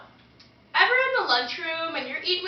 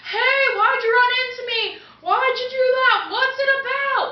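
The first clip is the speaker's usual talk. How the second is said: raised, higher mock-indignant protest; indignant complaint; 5 semitones higher, 4 dB louder than usual. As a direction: act out an outraged crowd demanding answers. Acting out people who get bumped into.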